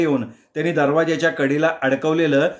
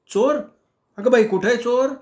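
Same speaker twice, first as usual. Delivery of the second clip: high alarmed gasp of a housewife; startled wife; 8 semitones higher than usual. Acted. Wife alarmed at news of a thief, high startled cry. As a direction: shriek it out, startled.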